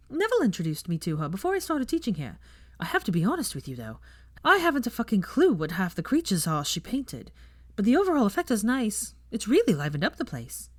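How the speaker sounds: proud, breezy professor; chatty young witch. Acted. Teacher brags about her lessons to guests, breezily.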